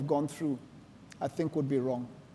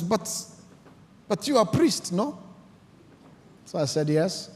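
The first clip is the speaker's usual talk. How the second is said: higher, lightly voiced sheikh asking a friendly question; a hint of a curious sheikh, voice lifting; 6 semitones higher than usual. Sheikh asks the priest about his church, lightly voiced.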